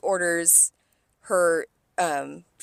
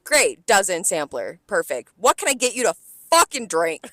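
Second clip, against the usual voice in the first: exasperated; 5 dB louder than usual. Retold or imitated. Fed-up server quoting herself.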